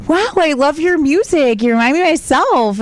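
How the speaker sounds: mock sweet praise. Fake-sweet compliment to rival dancer.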